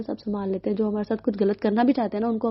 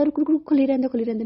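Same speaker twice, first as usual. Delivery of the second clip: urgent call to stop; 4 semitones higher, faster than usual. Retold or imitated. Telling her sister to leave the window open, urgent call. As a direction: stop her before she shuts it.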